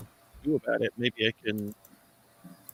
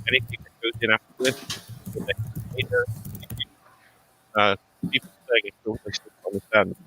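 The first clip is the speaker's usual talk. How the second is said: choppy, glitching connection; breaking up audio. Real, not acted. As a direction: voice cutting in and out. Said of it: "you're breaking up still a little bit".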